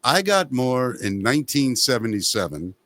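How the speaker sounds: lightly voiced boastful rock star; a hint of a star's deadpan brag, sinking low at the end; a rock musician. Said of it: "and he goes".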